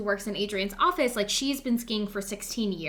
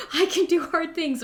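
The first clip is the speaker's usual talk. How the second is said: the second "I can do hard things" higher and louder, more insistent; repeating her mantra down the mountain, more insistent; firmer mantra; 7 semitones higher, 4 dB louder than usual. Retold or imitated. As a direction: push the mantra harder the second time. Repeated mantra, pushed harder.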